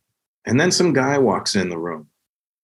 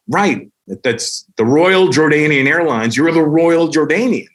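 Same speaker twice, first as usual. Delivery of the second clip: the king's voice; 5 semitones higher, slower than usual. Retold or imitated. King's reply quoted.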